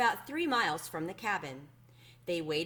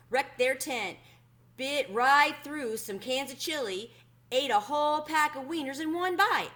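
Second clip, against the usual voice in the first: a lightly voiced chuckling ranger, a bit higher and brighter in energy; amused old ranger; 7 semitones higher, 5 dB louder than usual. Old ranger amused by the bear's antics, telling the girl, lightly voiced. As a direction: tell it like a tickled old volunteer spinning a yarn.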